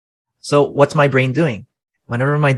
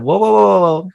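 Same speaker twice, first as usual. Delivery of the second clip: sudden high, loud run of whoas, catching himself; startled whoa; 7 semitones higher, 5 dB louder than usual. Retold or imitated. Father catching his own anger at his toddler, alarmed whoas. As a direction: slam the brakes in a burst of alarm. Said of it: "I said".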